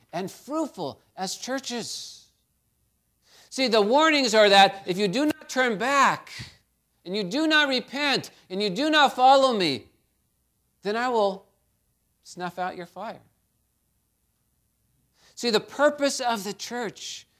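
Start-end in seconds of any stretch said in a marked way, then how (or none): 3.5-13.2 raised warning stressing not; rising warning. Acted. Preacher warning the churches, building loud. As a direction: build the threat, then drop.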